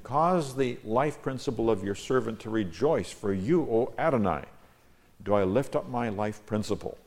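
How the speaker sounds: declaimed psalm, key words lifted; measured, emphatic recitation; emphatic scripture reading. Acted. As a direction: read the verse out as a prayer to God. Reads own psalm translation.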